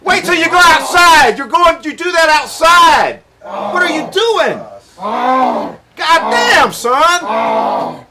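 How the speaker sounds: yelling sharply at the dog; angry shouting. Real, not acted. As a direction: bark it out at a misbehaving dog. Scolding the dog indoors.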